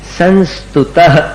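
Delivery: संस्तुतः slow, final aspirated breath 'ah' released; visarga release. Shown as a demonstration. Teacher showing students the visarga, slow release. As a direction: let the voice go on the ending of संस्तुतः. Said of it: "वहां पर अपनी आवाज को रोकना पड़ता है".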